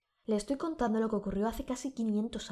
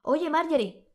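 loud, higher call up to a balcony; husband shouting up to his wife on the balcony; 6 semitones higher, 6 dB louder than usual. Acted. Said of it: "gritando a su esposa".

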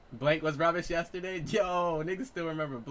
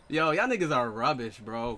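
put-on British accent; 5 dB louder than usual. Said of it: "You gotta use that accent".

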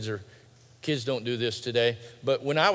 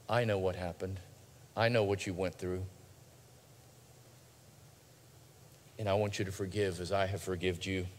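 quiet reassurance; 5 semitones lower, 6 dB quieter than usual. Acted. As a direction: reassure gently, as Jesus who knows the pain. Voicing Jesus's quiet reassurance.

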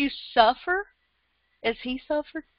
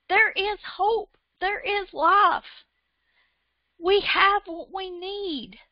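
fired up; 6 semitones higher than usual. Real, not acted. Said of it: "I'm getting fired up".

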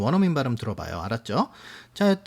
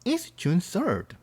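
very slow, each word separate; slow model answer; 3 semitones higher, much slower than usual. Shown as a demonstration. Teacher as the girlfriend answers very slowly. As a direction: drag it out for beginners. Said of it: "선생님이 여자가 돼볼게요".

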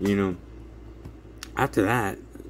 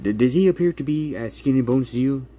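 pointed challenge; 4 semitones higher, 5 dB louder than usual. Retold or imitated. Attorney confronts caseworker.

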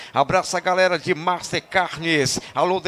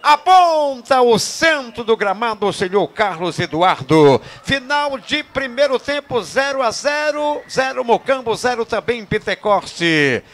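half-time call; 3 semitones higher, 4 dB louder, slower than usual. Real, not acted.

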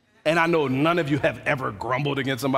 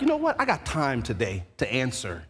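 mock confrontation; 6 semitones lower, 3 dB quieter than usual. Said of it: "That's why we like".

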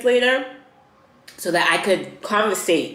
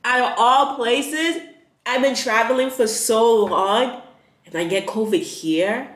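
exasperated disbelief; 4 semitones higher than usual. Real, not acted. Vents disbelief at getting covid.

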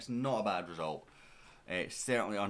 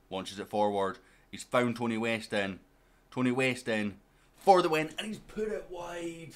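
excited play-by-play; 5 semitones higher, 8 dB louder than usual. Real, not acted. Gamer commentating on his team's late chance, excited play-by-play. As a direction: call the chance louder and higher, stretch the miss. Live match chance building, then missed.

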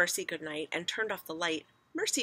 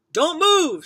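loud, raised-pitch command; alarmed shout; 11 semitones higher, 14 dB louder than usual. A narrator's reading. Father warns family as the bed sinks, alarmed shout. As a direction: shout the warning with force. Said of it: "shouted Mister Watson".

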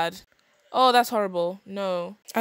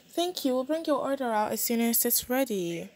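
higher, chirpy put-on server voice; voiced waiter; 3 semitones higher than usual. Waiter to the Sims on their date, put-on polite voice. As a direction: play a polite waiter, pitched up at the start.

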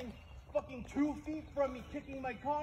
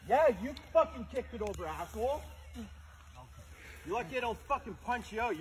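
angry yelling; 4 dB louder than usual. Real, not acted. Continued angry confrontation.

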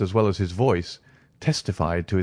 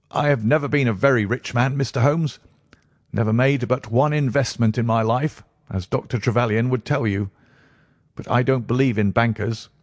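lightly reedy voice, anxious self-justification; nervous patient confiding; 4 semitones higher than usual. Acted. Patient explaining his money box to Holmes, nervously earnest. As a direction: plead your case in a slightly raised, edgy voice.

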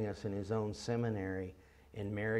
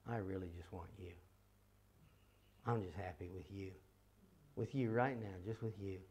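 soft, tender bedtime prayer; intimate prayer; 6 dB quieter than usual. Acted. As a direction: gently confide in God. Tender bedtime words to the Lord.

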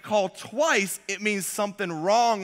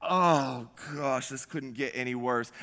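very low, soft, deflated groaning thought; inner thought; 7 semitones lower, 6 dB quieter than usual. Retold or imitated. Husband hearing he locked wife out, hushed dismay. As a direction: sink into quiet, private dismay. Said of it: "And I thought".

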